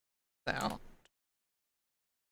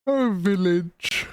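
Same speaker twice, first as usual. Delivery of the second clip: loud call; 5 semitones higher, 5 dB louder than usual. Real, not acted. Calling word loudly to game.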